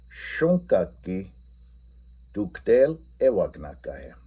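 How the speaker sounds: teacher repeating the Lakota question; careful Lakota repeat. Shown as a demonstration. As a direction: say the Lakota sentence again, slow and clear. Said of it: "I'm going to say".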